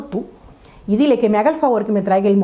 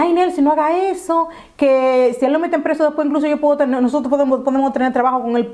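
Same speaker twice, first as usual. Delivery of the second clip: pleading; 4 semitones higher than usual. Retold or imitated. Retold friend pleading against reporting him.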